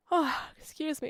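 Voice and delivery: yawning. Real, not acted. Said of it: "I'm yawning again".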